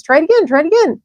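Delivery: very high, loud honking goose cries; a goose barking orders to the pig; shrill-pitched urgent goose shouts; excited goose. A narrator's reading. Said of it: "cried the goose".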